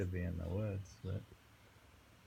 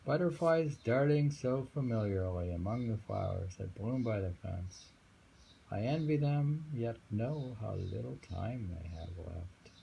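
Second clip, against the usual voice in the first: emphatic poem reading; 2 semitones higher than usual. Acted. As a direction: lean hard into the envy. Rereads the poem.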